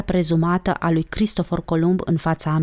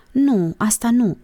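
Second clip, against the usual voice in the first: slow, higher defensive refusal; 6 semitones higher, slower than usual. A narrator's reading. Olguța refusing that particular oath, defensive. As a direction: fend the idea off, drawn out. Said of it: "se apără Olguța".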